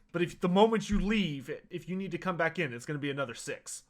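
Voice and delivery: a blunt physician who already has your money; Doctor Rupert's voice. Acted. Doctor frankly warns Verstadt about paying again.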